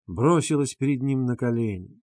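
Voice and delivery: plain reading voice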